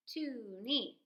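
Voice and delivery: Toonie split into two beats; clapping out Toonie; rhythm clap. Shown as a demonstration. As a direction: say Toonie as two even sounds. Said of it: "if you said this as a rhythm".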